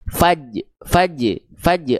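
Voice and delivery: "faj" cut short after the j; ro sukun dihilangkan. Shown as a demonstration. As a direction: drop the final r, stopping at "faj". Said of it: "cuma baca begini". ("faj" tanpa bunyi ro di akhir)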